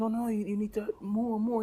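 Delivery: high-pitched mock correction; Larry. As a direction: play the fussy sitcom cousin cutting in. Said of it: "He goes".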